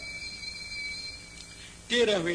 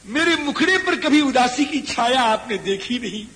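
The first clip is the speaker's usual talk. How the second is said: higher, louder grieving cry as Bharat; impassioned wail; 7 semitones higher, 8 dB louder than usual. Acted. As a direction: pour out a son's grief at full voice. Preaching Bharat's grief at full force. (ऊँची आवाज़ में विलाप)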